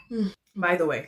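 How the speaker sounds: talking with food in mouth; words pushed through a mouthful; mouth full. Real, not acted. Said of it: "there was food in my mouth".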